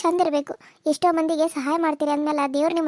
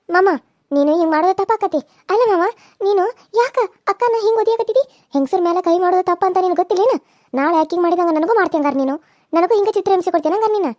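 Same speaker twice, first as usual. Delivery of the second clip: heated protest; 3 dB louder than usual. Acted. Confronting uncle over beating.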